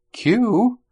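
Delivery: high, loud startled call; sharp questioning cry of concern; alarmed exclamation. A narrator's reading. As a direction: exclaim it in alarm, pitch leaping up. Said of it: "both M and Rhaegyra exclaimed".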